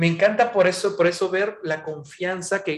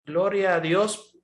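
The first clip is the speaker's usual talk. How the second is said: slow, put-on religious voice; pious-sounding praise; 3 dB louder, slower than usual. Believer hiding his pain behind a slow, pious prayer. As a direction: lay the false piety on slowly. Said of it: "Se escucha muy bonito, muy religioso".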